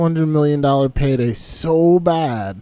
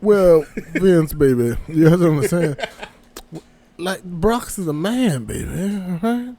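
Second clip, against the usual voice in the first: mock Southern drawl. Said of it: "Why is he fucking Foghorn Leghorn".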